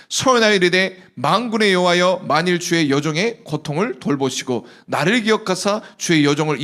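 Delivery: scripture reading. Acted. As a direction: read the verse aloud to the hall. Congregation reads scripture together.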